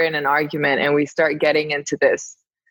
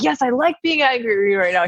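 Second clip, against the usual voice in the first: higher-pitched, playful mock defiance; enjoying a tantrum; 5 semitones higher than usual. Guest answering her calming partner, gleeful little tantrum. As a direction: relish the pretend anger. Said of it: "enjoying being in my little tantrum".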